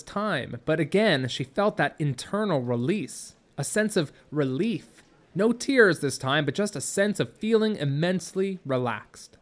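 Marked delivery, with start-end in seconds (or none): none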